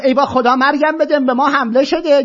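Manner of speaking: high, loud mock wail of panicked women; shrieking women. Women in chadors crying that they are attacked, mock shriek. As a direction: ham up the women crying out in alarm. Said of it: "جیغ جیغ".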